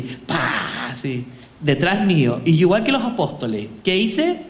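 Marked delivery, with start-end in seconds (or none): 0.0-0.9 sudden drawn-out "pa" bang noise; violent bang imitation. Priest shows the freezer lid bursting open, imitated bang. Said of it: "pero violentamente, así".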